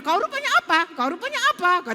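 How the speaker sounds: the little sibling firing back in a hammed-up squabble; mock angry retort. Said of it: "Dijawab lagi sama adiknya".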